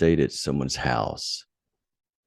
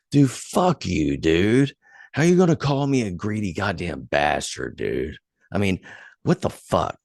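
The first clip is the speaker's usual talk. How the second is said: furious comeback; 4 semitones higher than usual. Retold or imitated. Retold phone fight with the drunk friend, angry retort. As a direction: snap back hard at the insult. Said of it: "I was pissed".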